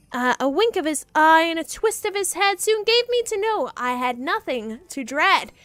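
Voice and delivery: rhythmic read-aloud of the poem; story narration. Acted. Streamer reading the poem to chat, storyteller voice. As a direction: lilt through the verse.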